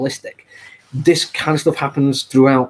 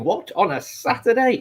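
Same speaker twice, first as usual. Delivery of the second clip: pitched way up in mock disbelief; incredulous viewer; 11 semitones higher than usual. A viewer surprised the show is on a Saturday, high mock disbelief. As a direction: play the baffled viewer who can't believe it. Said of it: "You're probably thinking".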